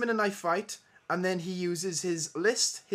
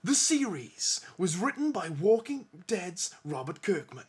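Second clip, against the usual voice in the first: trailer man voice. Shown as a demonstration. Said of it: "read this like the awesome trailer man".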